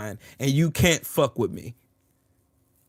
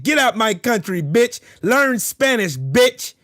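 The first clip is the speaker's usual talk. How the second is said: higher, louder jeering shout; taunting yell; 6 semitones higher, 3 dB louder, slower than usual. Real, not acted. Trash-talking an angry online opponent, taunting yell. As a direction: bark the taunt at him.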